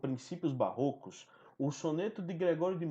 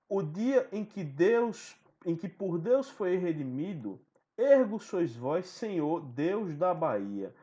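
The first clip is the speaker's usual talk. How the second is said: measured, emphatic recitation of the sonnet; solemn baroque poem read aloud. Acted. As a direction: declaim the verses with weight.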